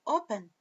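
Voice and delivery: "open" with the first syllable punched; stress on O. Shown as a demonstration. Teacher showing where the stress falls, "open" stressed on O. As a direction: hit the O at the start of "open". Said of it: "a força tá no O".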